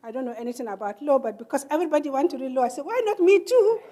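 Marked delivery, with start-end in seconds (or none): 2.8-3.8 high, loud laughing quip. Real, not acted. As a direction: toss it off with a laugh at yourself.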